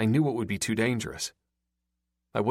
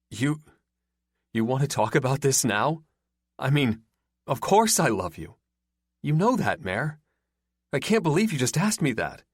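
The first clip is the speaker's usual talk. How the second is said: defensive disbelief; 5 semitones higher, 3 dB louder than usual. A narrator's reading. Boyfriend defensive, shocked.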